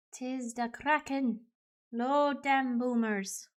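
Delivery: slow pirate voice sliding into Scottish; Scottish-tinged pirate. Acted. Player announcing the Kraken, Scottish-tinged pirate. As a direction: drawl a pirate line with Scottish creeping in. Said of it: "Why do I go Scottish?".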